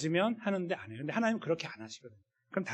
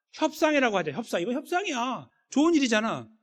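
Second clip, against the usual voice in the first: high, insistent sales pitch; mock persuasion; 7 semitones higher, 3 dB louder than usual. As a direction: talk them into it, pitched up and emphatic. Acted self-persuasion about compromise.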